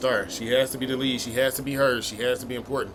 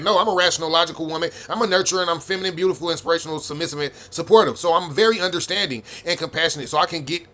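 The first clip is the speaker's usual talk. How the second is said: mock ideal woman; 2 semitones higher than usual. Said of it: "Instead of you telling me that".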